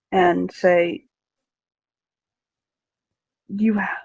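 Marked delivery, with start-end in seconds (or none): 3.5-4.0 a tense, half-voiced whisper cut short; strained whisper. Carrig whispers through a clenched jaw.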